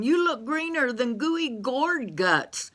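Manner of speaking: a hint of a sassy country gal; lightly voiced Bessie May. Bessie May's voice.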